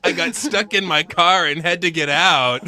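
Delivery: mock Pauly Shore. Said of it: "video of Pauly Shore".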